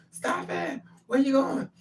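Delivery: high-pitched mock phone yelling; retold screaming. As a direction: imitate him hollering down the phone. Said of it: "He's screaming on the phone".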